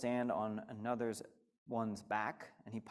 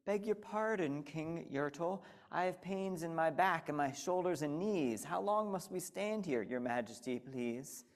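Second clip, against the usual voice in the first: higher, timid small voice; meek little turtle; 4 semitones higher than usual. Acted. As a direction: plead politely from the bottom. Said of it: "he said".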